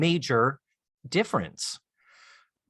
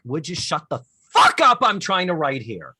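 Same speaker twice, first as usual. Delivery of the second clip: retold snapping; 5 dB louder than usual. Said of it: "I'm paraphrasing".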